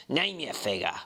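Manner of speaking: hint of a sneering Mr Hyde, unhurried; sneering gentleman. A narrator's reading. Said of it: "really like Satan".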